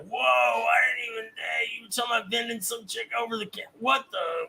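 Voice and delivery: baffled outburst. Acted. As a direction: act out a stunned listener losing the thread. Acts out a baffled listener's reaction.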